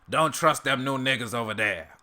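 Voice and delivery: lightly put-on cartoon character voice; rough attempt at a character's greeting; Uncle Ruckus impression. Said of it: "I have to do the voice".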